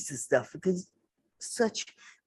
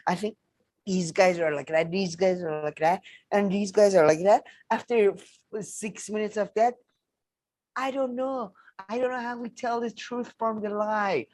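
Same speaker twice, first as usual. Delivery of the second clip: mocking imitation; 2 semitones higher than usual. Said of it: "three minutes of saying bullshit".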